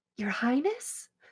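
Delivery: soft, hushed, under-the-breath whisper. Walking up to a queen in character and addressing her: whispering. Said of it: "kinda whisper".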